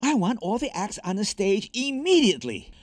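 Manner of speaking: high, fussy order from a nervous little man; high-pitched nervous boss voice; high-pitched shout. A narrator's reading. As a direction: call out a high, urgent demand. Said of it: "In a high-pitched voice, he shouted".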